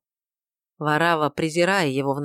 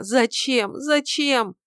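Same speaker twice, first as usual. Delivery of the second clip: wailing; 8 semitones higher, much slower than usual. A narrator's reading. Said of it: "вопил несчастный человек".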